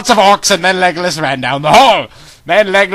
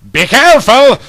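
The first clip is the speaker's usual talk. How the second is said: warning shout; 8 semitones higher, 6 dB louder than usual. Acted. Strider warns Gandalf.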